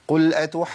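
"أتحاجون" with only one jeem after the long "aa"; single jeem. Shown as a demonstration. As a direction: drop the doubling in "أتحاجون". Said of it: "فين الجيمين يا عم؟".

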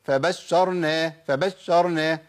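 فبشرناه with the sh jolted and clipped; pushed shin. Shown as a demonstration. Teacher showing another mistake, jolted shin in فبشرناه. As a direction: push hard through a short sh in فبشرناه. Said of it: "ولا أقول".

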